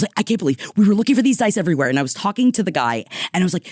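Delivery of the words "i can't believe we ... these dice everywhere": rushed, excited disbelief; fast retelling of excited amazement. Retold or imitated. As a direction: gush it out in a rush. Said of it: "I was so excited".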